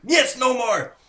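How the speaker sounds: hammed-up high Russian accent; Teddy KGB Russian accent. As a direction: bark it like a Russian card shark. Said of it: "Russian accent is very imitatable".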